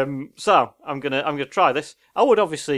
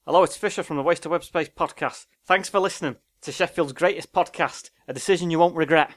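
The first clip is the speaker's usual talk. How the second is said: a light Mancunian accent; Manchester accent; 3 semitones higher than usual. Shown as a demonstration. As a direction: read it like someone from Manchester. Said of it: "it is Manchester".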